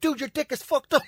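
high, laughing through the words; giggling at his mate; laughing insist. Retold or imitated. Arguing with friend on couch: high, laughing. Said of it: "I was like".

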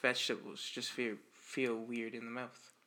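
slow, deliberate repeat. Real, not acted. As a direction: spell it out slowly so they hear. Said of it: "I can't hear a thing you're saying".

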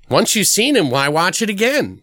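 imitating girlfriend's dismissiveness. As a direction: imitate her dismissive questioning, pitch lifted. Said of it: "that was her thought".

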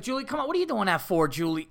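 lightly voiced owner scolding her pet; high start, easing down, talking to the dog like a person; a hint of exasperated pet owner; chiding dog owner.

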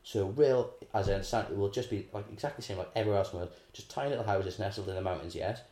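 brisk, breezy director voice; mock film director. Mocking the film director's lazy Wales, brisk and breezy. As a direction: rattle it off like a careless director. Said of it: "the director's like".

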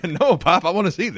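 put-on a touch of a pleading child; kid pleading. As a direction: play the kid protesting to his dad. Kid protesting dad covering eyes.

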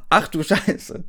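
rereading "Ach du Scheiße" as an over-the-top squeak; mock shocked squeal. Reader mocking the friend's reaction, squeaky and hammed-up.

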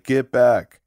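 lightly imitated flat police order; monotone cop. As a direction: give a detached, monotone command like the officer. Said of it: "monotone, like, vocal cadence of the police officer".

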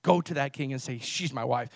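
low, soft, understated quote; imagined quiet prayer. Acted. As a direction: murmur a resolve privately to God. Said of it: "It wasn't like Abraham saying".

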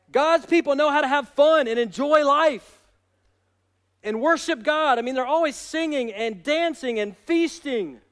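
impassioned preaching. Real, not acted. Preacher telling the church God's people know how to party, impassioned. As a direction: drive it home to the congregation.

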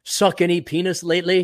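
mock-British club small talk; British gent's casual inquiry. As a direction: ask it politely in a fake English accent. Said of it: "none of us have British accents".

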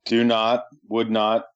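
each long form set apart by pauses; jokingly over-separate the full words; playful choppy, uncontracted speech; mock stilted formality. Jokingly shows the uncontracted habit.

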